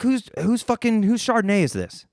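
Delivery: mock outrage. Outraged at bottle.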